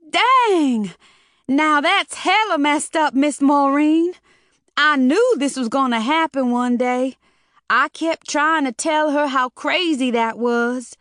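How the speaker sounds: put-on high, loud young woman blurting out; excited outburst. A narrator's reading. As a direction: burst out, shocked and chatty. Mona blurts out in shock.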